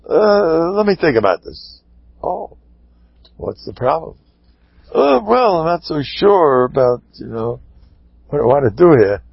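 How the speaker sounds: stall, pausing between reluctant phrases; acted hesitation. Husband rethinking the divorce before the Rav, hesitant and unsure.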